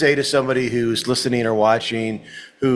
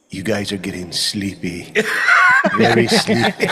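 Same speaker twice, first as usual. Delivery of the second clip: mock hypnotist; 4 semitones lower than usual. Host joking about hypnotizing the crowd, laughing. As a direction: lull them, then crack up. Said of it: "tempted to go".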